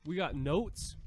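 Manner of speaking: talking with a mouth full; words round a bite of bread. Real, not acted. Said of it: "I'm talking with my mouth full".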